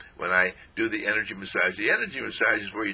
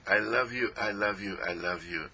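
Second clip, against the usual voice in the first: tender self-talk; 5 dB quieter than usual. Shown as a demonstration.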